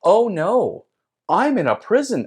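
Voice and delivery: high, loud wail of dismay; mock alarm. Seeker with face pressed to bars, alarmed. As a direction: cry it out in exaggerated panic. Retold alarm at being jailed.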